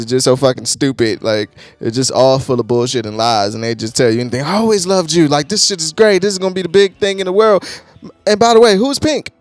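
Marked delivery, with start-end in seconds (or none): 4.4-9.3 butter up the band, then ask who a certain singer is; fake record exec.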